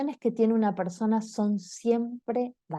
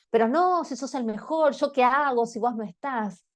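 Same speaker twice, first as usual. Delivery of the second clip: mock cheerful dismissal; 5 semitones higher than usual. Friend dismissing a sad friend.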